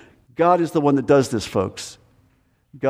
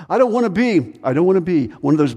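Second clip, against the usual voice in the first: protesta recitata; 3 semitones higher, faster than usual. Acted. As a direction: play a reluctant churchgoer, pitch jumping up. Acted cultural Christian objecting.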